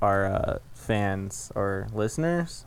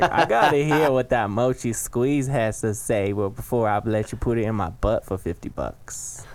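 put-on old grandma. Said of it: "sounds like an old fucking grandma".

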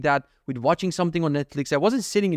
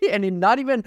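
laughing; 7 semitones higher than usual. Real, not acted. Laughs at silly thought.

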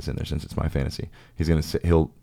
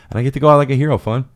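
triumphant; 9 semitones higher, 9 dB louder, faster than usual. Pretend. Triumphant fantasy climax.

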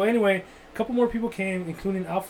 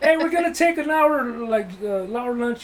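loud, raised-pitch cocky announcement; mock big-shot swagger; 5 semitones higher, 5 dB louder than usual. Newly confident worker announces a long lunch, mock swaggering. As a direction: strut in like you run the place. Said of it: "Big Dick Johnson, just like".

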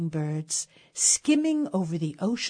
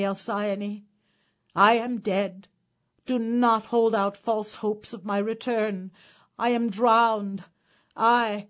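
louder, pleading drowned husband, mildly tearful; tearful ghost; 5 dB louder than usual. Acted. Drowned husband's ghost to his sleeping wife, mildly tearful plea. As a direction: urge her to mourn, a touch of tears. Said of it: "with tears streaming down his face and says".

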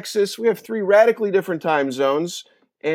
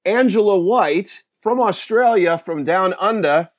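slow, drawn-out mock Australian accent; a bad stab at an Australian accent; shitty Australian accent; 2 semitones higher than usual. Host introducing Australian guest in a bad Australian accent. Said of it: "that was a really shitty Australian accent on my part".

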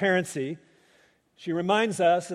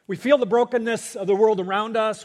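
first line of the pair pushed louder, leaning on feel; louder preaching emphasis; 4 dB louder than usual. Real, not acted. Preacher to congregation, raising the first lament line louder. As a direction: preach it out with a swell.

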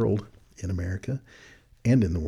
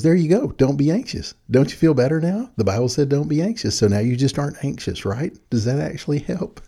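bright, higher, louder mock comfort; mock cheery reassurance; 5 semitones higher, 3 dB louder than usual. Quoting his own glib advice to a student, mock cheerful. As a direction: sarcastically brush off the worry. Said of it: "what I said was".

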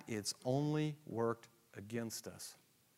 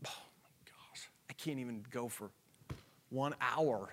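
a hushed, breathless gasp of dismay; hushed self-reproach; whispered dismay; 5 dB quieter than usual. Retold or imitated. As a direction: whisper it like catching yourself failing. Berating himself in inner monologue.

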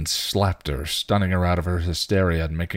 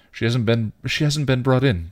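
a touch of relief in the voice; higher-pitched, relieved report; 6 semitones higher, 4 dB louder than usual. A narrator's reading. Buffy tells him she hasn't been brought in, relieved. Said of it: "relief in her voice".

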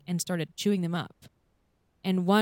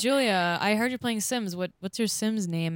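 mock interviewer; 3 semitones higher than usual. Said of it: "Can you ask me about my sim?".

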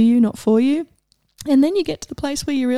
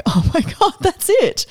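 higher and louder, eureka; delighted realization; 7 semitones higher, 3 dB louder than usual. Retold or imitated. Realizing what her friend meant, delighted. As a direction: it clicks all at once. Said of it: "I just burst out laughing".

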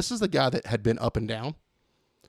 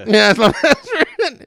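loud, high, drawn-out mock bragging; hammed-up boast; 13 semitones higher, 12 dB louder, slower than usual. Showing friends Colton's photos, hammed-up excited boast. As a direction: crow it slowly and loudly.

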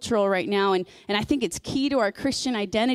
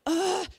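exasperated groan; 8 semitones higher than usual. Retold or imitated. Acts out her angry frustration.

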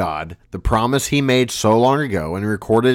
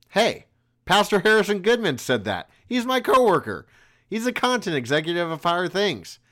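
upbeat ad read. Acted. Sponsor outro for podcast.

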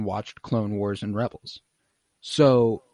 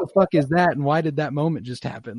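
higher, laughing mock confusion; baffled viewer; 5 semitones higher, 3 dB louder than usual. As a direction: play a confused newcomer, half laughing. Acting a confused new viewer.

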